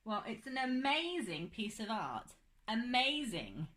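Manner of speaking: slow, warm, drawn-out praise. Real, not acted. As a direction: praise it slowly and warmly. Praising child's drawing.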